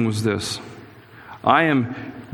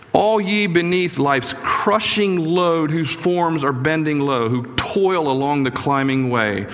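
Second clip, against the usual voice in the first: slow, measured recitation of a hymn verse; hymn verse recited; 3 semitones higher, slower than usual. Shown as a demonstration. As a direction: read the verse out slowly, weighing each line. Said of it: "like the verse says".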